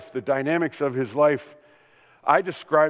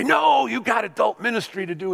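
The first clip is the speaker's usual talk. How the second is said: higher, louder protest; indignant shout; 8 semitones higher, 4 dB louder than usual. Acted. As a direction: bark it like bossy adults shooing kids away. Adults voiced rebuking Jesus.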